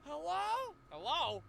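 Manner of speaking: lightly voiced delirious roommate; groggy roommate. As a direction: answer like a half-asleep man. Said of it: "he's like".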